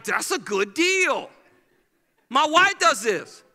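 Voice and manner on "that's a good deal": mock delighted shopper; hammed-up bargain hunter, slow. Shopper voice at the sale item. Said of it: "Be like".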